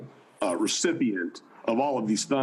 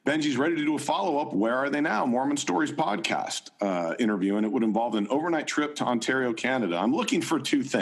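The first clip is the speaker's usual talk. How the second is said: John Dehlin voice. Acted. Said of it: "in your John Dehlin voice".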